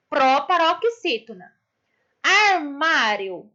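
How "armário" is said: ARMÁRIO drawn out, weight on MÁ; stress on MÁ. Shown as a demonstration. Teacher showing pupils the tonic syllable, stress on MÁ in ARMÁRIO. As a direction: slowly sound out ARMÁRIO, leaning on MÁ. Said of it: "o má".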